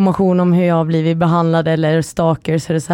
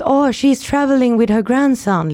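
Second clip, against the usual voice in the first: raised-pitch imitation of a flustered explanation; flustered mother, imitated; 6 semitones higher than usual. Mother explaining to the Greek police, flustered. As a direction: plead it higher, as an imitated mother.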